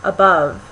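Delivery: "above" with a short first vowel and a stronger second; demonstrated "above", quick uh then prominent BOVE; stress on second syllable. Shown as a demonstration. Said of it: "appears in a stressed context".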